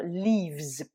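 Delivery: "leaves" slowly with long i and z ending; English leaves. Shown as a demonstration. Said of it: "son pluriel".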